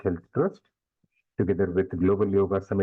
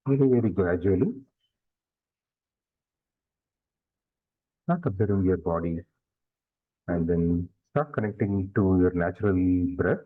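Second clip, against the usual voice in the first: guided meditation. Real, not acted. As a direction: lead them gradually into stillness, leaving long silences.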